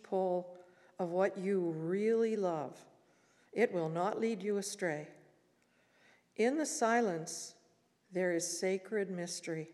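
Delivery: slow, measured poem reading; poetry recitation. Acted. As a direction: recite slowly, pausing between phrases. Recites a second Rumi poem.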